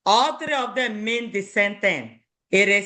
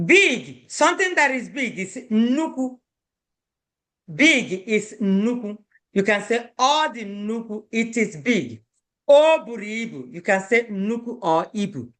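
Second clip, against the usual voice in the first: ordinary talk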